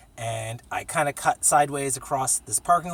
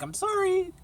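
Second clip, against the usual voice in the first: much higher meek little apology voice; mock timid apology. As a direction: squeak out a sheepish sorry. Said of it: "be like".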